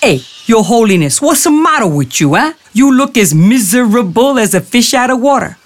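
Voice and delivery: a wisecracking jackal sizing up a mark; sly jackal. Acted. Jackal teasing the sad Brahmin, streetwise high voice.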